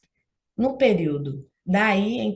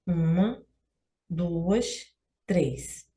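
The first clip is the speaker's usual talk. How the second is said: counting syllables; 2 semitones lower, 3 dB quieter, much slower than usual. Shown as a demonstration. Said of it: "Carinho tem três".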